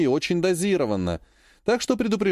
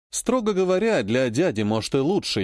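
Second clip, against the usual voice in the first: plain reading voice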